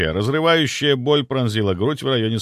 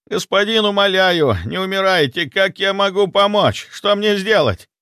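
high, loud desperate pleading; frightened servant begging; begging in panic; 10 semitones higher, 4 dB louder than usual. A narrator's reading. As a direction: plead with him not to die. Butler begging dying master.

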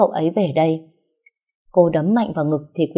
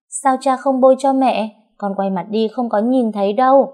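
put-on higher, louder child's voice, puzzled; a small child asking innocently, higher; curious little girl; 7 semitones higher, 4 dB louder than usual. A narrator's reading. Little Xíu asks why father won't help mother, higher child voice.

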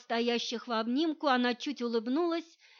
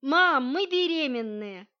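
громко и протяжно, на всю квартиру; крикнуть маме на кухню, медленно и громко; радостный крик; 2 semitones higher, 5 dB louder than usual. A narrator's reading. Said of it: "крикнул". (муж кричит маме на кухню: громкий радостный зов)

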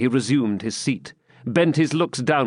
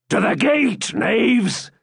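raised, higher hasty order to servants; hasty command; 9 semitones higher, slower than usual. A narrator's reading. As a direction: bark it out quickly at the knaves. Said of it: "said the Saxon hastily".

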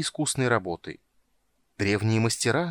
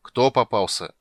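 displeased; 4 dB louder than usual. Acted. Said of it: "недовольно поинтересовался Чани".

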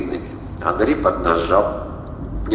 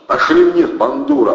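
loud, high bellow; roar; 6 semitones higher, 6 dB louder than usual. A narrator's reading. Valery bursting in on sleeping Andrey, roaring. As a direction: roar it down the room. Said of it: "проревел Валерий".

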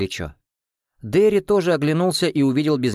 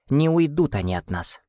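squeaky doll voice; 5 semitones higher than usual. Acted. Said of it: "пропищала кукольная голова".

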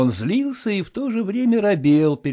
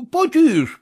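a firm warning, louder; 12 semitones higher, 4 dB louder than usual. Acted. Cook warning Vasilisa to keep it down, firm. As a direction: hush her firmly.

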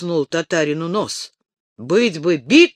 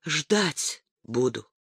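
passionate; 8 dB quieter, much slower than usual. A narrator's reading. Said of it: "Горячо, страстно сказала Маша".

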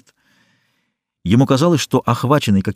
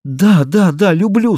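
high, slightly louder outburst with a sob; sobbing; 9 semitones higher, 4 dB louder, slower than usual. A narrator's reading. Susanna giving in to Eugene, high sobbing confession. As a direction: confession breaking out, a touch of sobbing. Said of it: "с рыданием вырвалось у неё".

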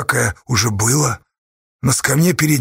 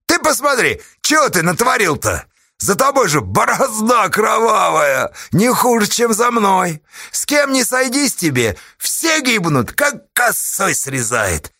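raised, pressing accusation; accusing Pugachev; 9 semitones higher than usual. A narrator's reading. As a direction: lean on him hard.

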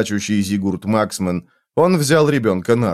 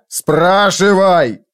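raised, drawn-out angry command; yelled order; 6 semitones higher, 4 dB louder, much slower than usual. A narrator's reading. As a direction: roar the order, stretching it out. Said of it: "Фойл орал".

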